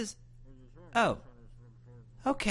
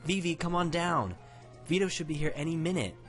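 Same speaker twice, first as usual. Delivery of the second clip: higher-pitched mom calling out; yelling; 7 semitones higher than usual. A narrator's reading. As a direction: call upstairs to the kids, raised pitch. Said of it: "yelled Mom".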